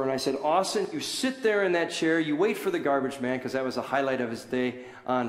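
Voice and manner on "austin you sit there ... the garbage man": a raised, stern mother scolding her son; firm and higher, reliving losing her temper; a mother snapping at her boy to sit and wait; retold scolding. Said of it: "I lost my temper".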